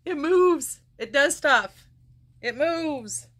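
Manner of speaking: excited squeal. Retold or imitated. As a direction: squeal over the new haircut. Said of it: "it's like".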